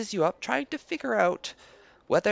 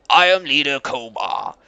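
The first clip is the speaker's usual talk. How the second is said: "Leader" pressed hard and proud, louder than the rest; stress on Leader; 7 semitones lower, 8 dB louder than usual. Acted. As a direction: lean on "Leader" in "I am Leader Koba". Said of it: "Koba emphasized the word leader".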